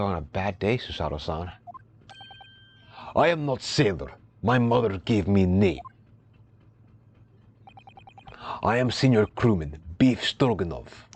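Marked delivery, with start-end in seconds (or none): 3.1-11.1 a hint of a gruff Russian accent; proud sailor, lightly put-on Russian accent; mild mock Russian sailor, slightly louder; lightly voiced Russian sailor.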